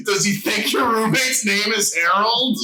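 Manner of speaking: laughing punchline; giggling delivery. Real, not acted.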